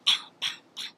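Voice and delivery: unvoiced "pow" noises; imitated gunshots. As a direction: mimic shots without voice, one pow at a time. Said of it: "I just hear the gunshot".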